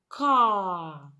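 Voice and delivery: "car" as k running into long "ah"; one drawn-out "car", sounds joined; blended sounds. Shown as a demonstration. Teacher blends two sounds into word, long vowel. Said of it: "when you blend them together".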